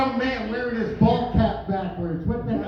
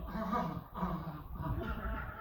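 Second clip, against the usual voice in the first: choking chicken; 5 semitones lower, 13 dB quieter, much slower than usual. Retold or imitated. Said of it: "it'll go".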